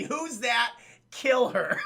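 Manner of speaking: laughing through it. Retold or imitated.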